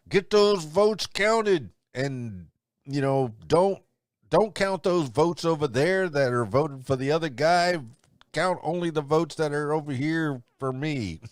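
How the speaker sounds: high-pitched mock pleading of a sore candidate; Donald Trump. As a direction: demand it in a high, put-on politician voice. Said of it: "Donald Trump's not going down without a fight".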